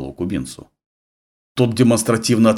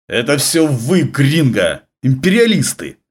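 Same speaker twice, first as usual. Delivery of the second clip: hissed contempt; 6 semitones higher, 4 dB louder, slower than usual. Acted. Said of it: "прошипел он".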